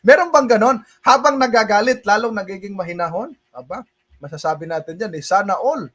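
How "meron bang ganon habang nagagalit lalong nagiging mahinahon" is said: louder and higher, amused disbelief; incredulous question. Real, not acted. Preacher marveling at the calm teacher, incredulous. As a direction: ask it like you can't believe it.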